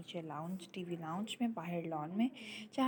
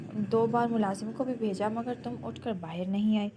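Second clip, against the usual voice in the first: loud angry tirade; furious; 4 dB louder than usual. Acted. Husband furiously scolding his wife for making him wait. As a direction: hurl it at her, loud and furious.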